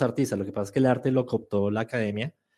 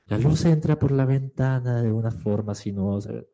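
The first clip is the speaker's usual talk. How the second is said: measured, gliding narrator delivery; voice-over narration; 2 semitones lower than usual. Shown as a demonstration. Teacher demonstrating a video voice-over about light, flowing narration. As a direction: let it flow like a film voice-over. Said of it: "la voz de alguien diciendo".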